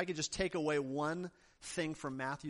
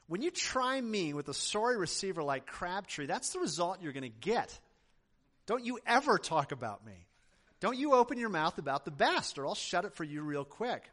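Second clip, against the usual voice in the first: retold yell; 4 dB louder than usual. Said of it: "he yelled at the camera".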